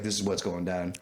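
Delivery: low, no-nonsense voice; dead serious. Retold or imitated. Buyer tells the thief how it is, low and dead serious. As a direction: drop the pitch and state it firmly. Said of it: "I'm not even joking with you".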